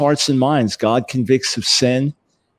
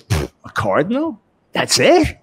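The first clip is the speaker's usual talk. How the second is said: scoffing Jewish dad; 5 semitones higher than usual. Retold or imitated. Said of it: "the Jewish dad says".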